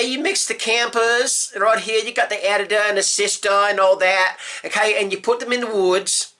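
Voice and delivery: put-on cooking-show host in a horrible British accent; bad British-Australian accent. Cooking show host explaining the recipe, hammed-up British-Australian accent. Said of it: "horrible British accent to a very bad Australian accent".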